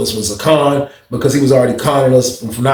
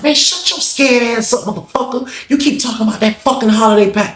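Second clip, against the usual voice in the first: angry insults; 10 semitones higher than usual. Retold or imitated. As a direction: tell him off with contempt. BB cursing out Lawrence.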